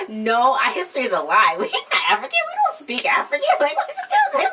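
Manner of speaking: quoting while laughing, high squeals of laughter; laughing through it. Real, not acted. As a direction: laugh your way through the quote.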